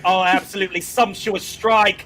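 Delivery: a light posh English commentator voice, lowly savouring the word; mock British commentator. Imitating British pundits to the panel, a light English accent. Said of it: "the Brits are like".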